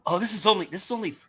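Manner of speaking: pleasantly surprised. Retold or imitated. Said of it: "You go".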